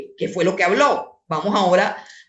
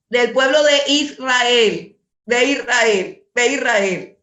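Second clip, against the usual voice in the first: emphatic preaching; 2 semitones higher, 3 dB louder, slower than usual. Real, not acted.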